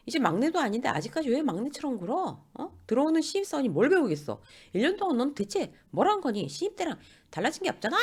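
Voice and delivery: high, nagging telling-off, building; scolding. Acted. Senior lays into a junior colleague, scolding. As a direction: pile on mock reproachful questions. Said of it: "이러면서 막 뭐라 했어요".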